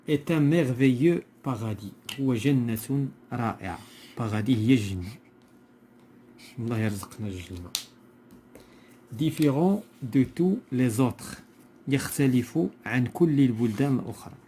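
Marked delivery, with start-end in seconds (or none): 0.1-2.2 slow, louder verse reading; measured classroom recitation; poem reading aloud. Shown as a demonstration. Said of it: "on va lire le poème". 9.1-11.4 slow, measured verse reading; deliberate classroom recitation; poem reading aloud. Shown as a demonstration. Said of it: "on va lire le poème".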